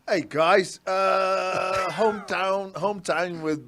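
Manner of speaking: attempted British accent, lightly put on. Shown as a demonstration. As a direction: have a tentative go at a British accent. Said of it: "do your best British accent".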